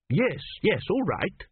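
snapped impatience. A narrator's reading. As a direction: cut him short, irritably. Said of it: "snapped Tepic".

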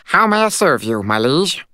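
high, loud courtly little fairy; formal fairy voice. Acted. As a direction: pipe it with a formal bow. Formal bow.

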